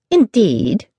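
as if hearing welcome news; pleasantly surprised. Acted. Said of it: "in the voice of one who had heard a pleasant but surprising statement".

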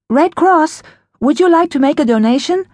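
high sweet stranger voice; eerie sweet voice. A narrator's reading. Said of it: "the woman's voice said".

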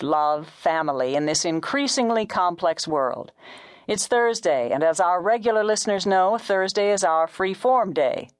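smooth on-air talk show opening; practised radio presenter patter; radio host. A narrator's reading. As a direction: welcome listeners back like a radio host. Radio host opens his show.

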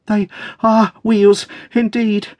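high, slow, agitated exclamation; panting excitement. A narrator's reading. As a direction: draw it out high, overcome with excitement. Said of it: "she panted".

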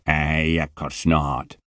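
put-on heavy Scottish accent, impatient and put out; a surly Scottish security man scolding; Scottish guard telling a boy to get up; grumpy Scottish guard. Scottish guard voiced in story.

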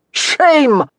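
high, drawn call of censure. A narrator's reading. Baron on the sidelines censures an unfair duelist, calling out. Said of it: "Baron Pottier called from the sidelines".

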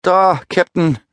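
high panicked sailor shout. Acted. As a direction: blurt it out in shock. Shaken sailor points, calls out. (panischer Ruf)

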